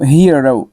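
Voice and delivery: "हीरो" said carefully as a model; pronunciation demo. Shown as a demonstration. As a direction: show learners how to say "हीरो". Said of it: "कहेंगे, ठीक है". ("हीरो" का साफ़ उच्चारण)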